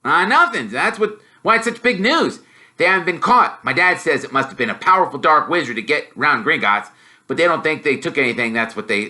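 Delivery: bursting to share news, fast; lightly voiced excited schoolboy; eager boy. Ron voiced by narrator.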